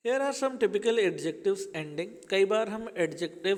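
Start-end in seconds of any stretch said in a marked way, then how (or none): 0.1-2.3 slow heading read. Shown as a demonstration. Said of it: "reading a heading slowly".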